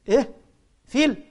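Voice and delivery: high, loud "فيل؟" in disbelief; baffled surprise. Retold or imitated. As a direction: react stunned to a made-up reading. Boy baffled by elephant reading. (الولد يستغرب بصوت عالٍ مندهش)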